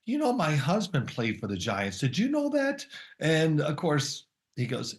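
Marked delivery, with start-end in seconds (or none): 0.0-2.8 lightly voiced proud wife. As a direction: play the wife bragging about her husband. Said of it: "And then she goes".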